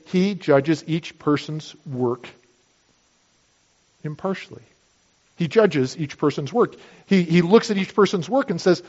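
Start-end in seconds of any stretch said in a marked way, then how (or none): 0.1-4.6 preacher to congregation, quoting the verse slowly and solemnly; slow solemn quote. Shown as a demonstration. Preacher to congregation, slow weighty verse quote. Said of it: "to say".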